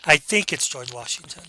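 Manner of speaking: unsure answer with a rising end; hedging. Shown as a demonstration. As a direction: hedge it, taking away the power. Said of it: "using a hedge phrase".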